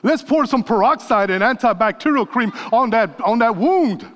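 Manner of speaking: frantic mother fussing over a scrape; mock frantic mama. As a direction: play the alarmed mom, hammed-up. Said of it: "mama screams at the top of her lungs".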